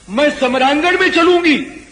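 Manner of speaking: lightly voiced demoness, high insistent demand. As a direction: raise the pitch high in a mock insistent demand. Shurpanakha's demand voiced in the katha. (राक्षसी की ऊँची, ज़िद भरी माँग)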